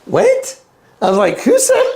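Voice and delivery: high incredulous "what?"; baffled, pitch jumps up; shocked. Retold or imitated. Shocked at his own words on the bus, high baffled.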